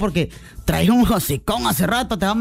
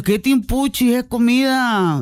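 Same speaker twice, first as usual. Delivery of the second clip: mock scolding; 3 semitones higher than usual. Real, not acted. Host mocks picky eaters.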